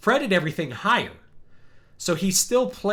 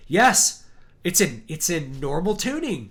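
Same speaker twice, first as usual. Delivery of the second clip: excited yes; 2 semitones higher, 4 dB louder, slower than usual. Retold or imitated. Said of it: "I'm like".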